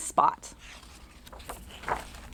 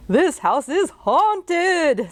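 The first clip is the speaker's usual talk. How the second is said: slow, stretched-out, higher alarmed man; frightened man; 7 semitones higher, much slower than usual. Acted. The father hiding in the bathroom, alarmed. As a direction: drag it out in alarm. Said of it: "said the man".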